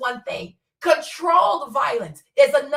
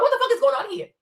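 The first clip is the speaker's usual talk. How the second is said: incredulous; 6 semitones higher, faster than usual. Retold or imitated. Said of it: "I'm like".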